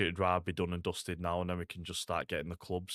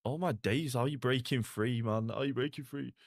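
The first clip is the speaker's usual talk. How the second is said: raised, incredulous "oh my days"; higher pitched astonished commentary; amazed disbelief; 4 semitones higher than usual. Real, not acted. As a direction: marvel at the break as it happens. Watching a player break free.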